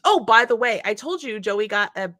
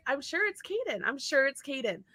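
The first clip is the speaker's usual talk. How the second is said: quiet mutter; 2 semitones higher, 8 dB quieter than usual. Retold or imitated. Mom muttering to herself.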